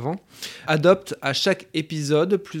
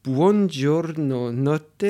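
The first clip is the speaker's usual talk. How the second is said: "Buongiorno Notte" drawn out slowly in a halting Italian accent; trying for Italian on "Buongiorno Notte" and missing it; clumsy Italian accent; much slower than usual. Real, not acted. Host naming the film to his guests, in a clumsy Italian accent. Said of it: "mon accent italien est pas terrible".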